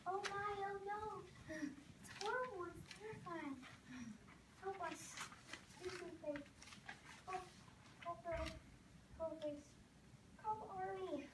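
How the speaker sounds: frantic pleading. Acted. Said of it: "shouting and waving their arms".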